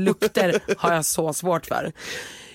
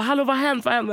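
high alarmed hallå; anxious knocking neighbours calling in; worried neighbors; 7 semitones higher, faster than usual. Retold or imitated. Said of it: "de bara".

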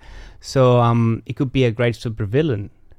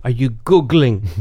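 slow teasing accusation. Acted. Teasing cohost third time.

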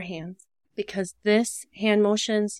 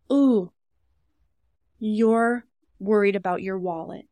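gentle reflecting; 3 dB louder than usual. Shown as a demonstration. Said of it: "opportunity to kinda pause and be like".

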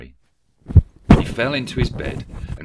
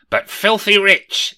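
very high, loud, slow gloat; gleeful exclamation; 13 semitones higher, 11 dB louder, slower than usual. A narrator's reading. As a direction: savour the word rich with greedy delight. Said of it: "exclaimed Rishi Scrooge".

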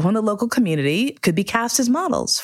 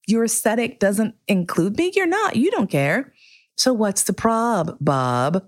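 sassy challenge; 5 semitones higher than usual. Retold or imitated. Mocking the photographer.

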